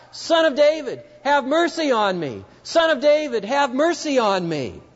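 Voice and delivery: high, frantic pleading call; desperate cry. Retold or imitated. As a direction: beg over the noise of the crowd. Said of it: "desperate and frantic".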